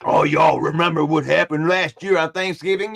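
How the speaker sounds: lightly voiced taunting rival fan; mocking rival quote. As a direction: gloat like the other team's fan, mildly. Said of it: "He was running his mouth".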